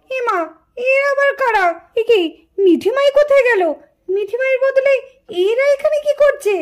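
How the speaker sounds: high, startled disbelief; mother shocked to find strangers in the bed. Acted. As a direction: gasp it out, who are these girls.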